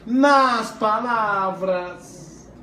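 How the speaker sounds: nas palavras stretched very slowly, word by word; slow teacher emphasis on "nas palavras"; drawn-out emphasis. Shown as a demonstration. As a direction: lean on "nas palavras" and draw out every syllable. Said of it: "então, nas expectativas".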